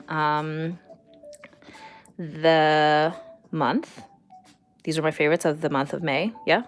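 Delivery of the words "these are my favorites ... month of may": quick, lightly German-accented English; a playful mock German accent, fast. Shown as a demonstration. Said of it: "English, words, German accent".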